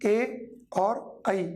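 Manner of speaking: ए and ऐ each stretched out very slowly and kept apart; slow vowel demo. Shown as a demonstration. Teacher contrasting ए and ऐ for students, very slow. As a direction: draw out ए and ऐ very slowly so the difference is heard. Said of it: "बात समझ में आती है?".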